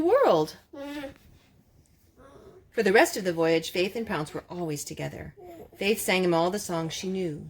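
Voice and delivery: gentle read-aloud storytelling voice; story narration. Acted. Mother reading a picture book to her children, gently.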